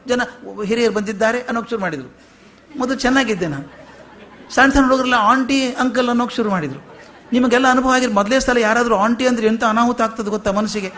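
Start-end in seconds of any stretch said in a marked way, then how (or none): 2.8-10.9 chuckling through the words; laughing while talking. Real, not acted. Preacher joking with the audience about being called aunty, laughing. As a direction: talk through a real laugh.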